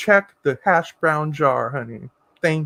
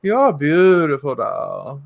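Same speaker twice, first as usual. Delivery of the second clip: put-on talking to a child; 4 semitones lower, slower than usual. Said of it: "I tend to talk like".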